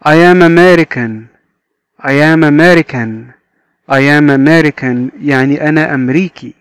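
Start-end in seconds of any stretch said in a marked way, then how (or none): 0.0-5.1 slow, word by word; slow teacher read; slow model reading. Shown as a demonstration. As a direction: model it slowly for learners. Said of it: "teacher modelling sentence".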